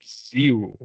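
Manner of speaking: "zero" begun like a D and Z at once; D-Z initial sound. Shown as a demonstration. Teacher showing Latin learners a hard word, "zero" with a DZ onset. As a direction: blend D and Z to start "zero". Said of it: "como una D y una Z".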